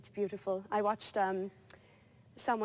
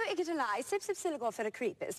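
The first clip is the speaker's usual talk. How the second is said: backwards speech; 2 semitones higher than usual. Pretend. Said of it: "can you say it backwards".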